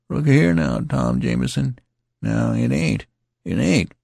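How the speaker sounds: bleating after the departing youth; plaintive bleating. A narrator's reading. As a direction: call after him pitifully. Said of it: "bleating plaintively".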